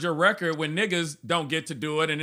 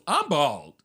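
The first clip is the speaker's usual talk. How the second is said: lower, understated reply; imitated police officer; 4 semitones lower than usual. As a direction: play the unbothered officer, pitched down. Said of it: "The guy goes".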